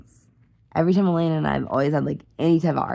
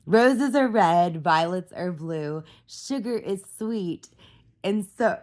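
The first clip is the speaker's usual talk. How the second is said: put-on child's poem recital; 3 semitones higher, slower than usual. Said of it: "She's like".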